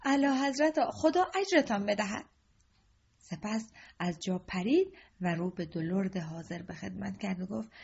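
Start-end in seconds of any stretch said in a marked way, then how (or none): 0.1-2.2 glad, lifted thanks to the king; boy kneeling and crying his thanks to the king; joyful cry. Acted. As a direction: cry out in happy relief. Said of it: "با خوشحالی زانو زد و فریاد زد".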